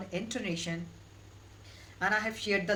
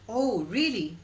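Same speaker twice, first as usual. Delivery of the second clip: surprised rising really; 2 semitones higher, 5 dB louder, slower than usual. Shown as a demonstration. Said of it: "you have to use rising intonation".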